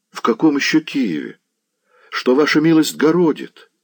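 high, incredulous servant; baffled disbelief. A narrator's reading. Servant doubting the news from Kiev, high-pitched bafflement.

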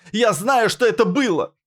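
high, loud anguished cry; high ragged yell; shout. A narrator's reading. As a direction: scream it out. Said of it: "закричала она".

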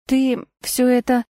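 slow, faltering start; the voice won't obey you; voice failing. A narrator's reading. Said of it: "голос не слушался". (голос не слушается)

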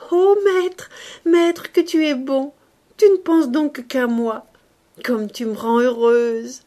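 high, loud cooing joy; cooing delight.

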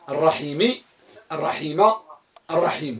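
الرحيم with final i, then u, then a; three case endings. Shown as a demonstration. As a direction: sound each ending of الرحيم in turn. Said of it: "كم يجوز في ميم الرحيم؟". (الرحيم بثلاثة أوجه)

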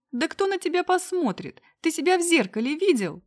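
a furious girlfriend shrieking mockery; shrieking woman. A narrator's reading. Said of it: "Продолжал визжать голос". (визг разъярённой девушки)

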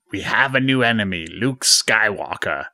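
lightly voiced sinister ruler, slowing on the name; a hint of a villain, drawing out the last words; Emperor. Emperor warning Vader of a new enemy, light impression. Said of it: "then the Emperor says".

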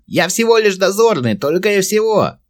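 very high, loud squeaky goblin. A narrator's reading. Captive goblin answering Verin, high goblin voice. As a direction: answer like a sly little goblin. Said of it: "ответил гоблин".

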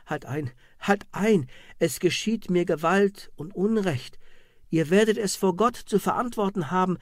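pleading cry, rushing the middle. Acted. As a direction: beg them to stop. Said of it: "Die Inquisitin rief da". (flehender Ausruf unter der Folter)

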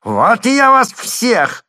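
very high, loud, slow wail; wailing threat. A narrator's reading. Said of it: "застонал Слёткин".

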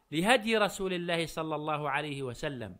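ordinary delivery

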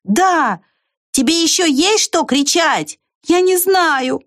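high shouted exchange; calling out. A narrator's reading. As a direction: call across the wall. Shouting over the fence.

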